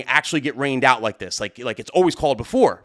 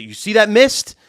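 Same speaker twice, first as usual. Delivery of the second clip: urgent warning; 3 semitones higher, 5 dB louder than usual. Retold or imitated. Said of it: "And I said".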